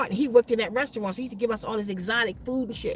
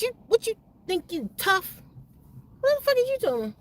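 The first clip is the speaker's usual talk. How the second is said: retold angry challenge, much higher; angry man; 8 semitones higher than usual. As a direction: imitate him snapping at her, high and tense. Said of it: "he started getting mad at me".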